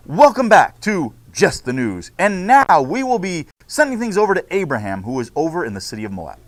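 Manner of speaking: bright, announcing host read; news anchor. Acted. Teacher reads class news script to students, anchor style. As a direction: open the broadcast like a TV host.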